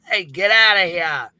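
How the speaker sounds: a moderately loud shout, slowed down; retold scream. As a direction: yell to drive him away, half-hearted. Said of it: "He screams".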